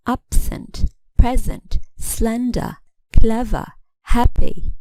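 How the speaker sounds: "absent, present, slender, clever, happy", each stressed on its first syllable. Shown as a demonstration. Teacher listing adjectives, "absent, present, slender, clever, happy" stressed on first syllables. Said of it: "two-syllable adjectives stress the first syllable".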